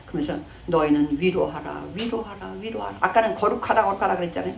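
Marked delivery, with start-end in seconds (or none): 0.7-3.0 echoing 위로하라 dying down; fading repeated command. Acted. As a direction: let 위로하라 fade away gently. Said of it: "위로하라는 거예요".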